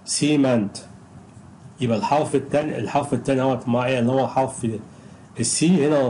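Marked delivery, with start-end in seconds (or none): 0.0-0.8 سيمنت with first syllable strong, second weak; stress on the first syllable. Shown as a demonstration. Teacher modelling strong then weak syllable, clear stress. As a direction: punch the SI of سيمنت, drop the rest. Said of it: "اعمل هنا ويك وبعدين اعمل هنا بقى ايه بقى ستريس".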